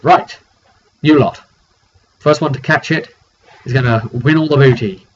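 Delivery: rally the crowd like a rowdy captain; bellowing captain starting the contest; captain calling out. Retold or imitated.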